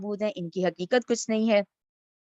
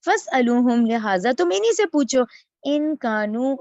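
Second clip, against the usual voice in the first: louder, pressing the challenge; emphatic challenge; 5 dB louder than usual. Acted. Ibrahim daring the idol worshippers to question the idols, loud and emphatic. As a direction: dare them to ask the idols.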